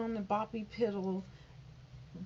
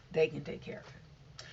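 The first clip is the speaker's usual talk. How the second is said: whisper; 4 semitones lower than usual. Shown as a demonstration. Repeats line, then whispers it.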